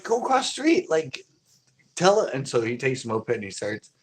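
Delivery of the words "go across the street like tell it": re-enacted urgent call, high and raised; urgent order. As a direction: call out urgent instructions as in the retold moment. Repeats his urgent order to friend.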